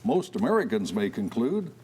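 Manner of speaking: measured news-anchor read; radio newscaster. Acted. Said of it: "like a radio newscaster".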